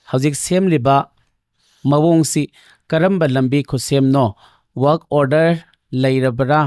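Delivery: slow, measured read-aloud with pauses between phrases; deliberate question-reading voice, pausing often. Real, not acted. Reads out the next question.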